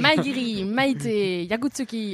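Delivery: loud karate kata calls; karate shouts. Pretend. Playing at a fight, he calls karate moves loudly. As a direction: bark out the kata names like a fighter. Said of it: "C'est japonais".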